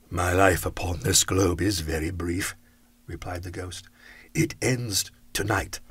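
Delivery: low, grave spirit; solemn ghost voice. Acted. Ghost tells Scrooge its life ends tonight, low and grave. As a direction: speak like a calm dying spirit.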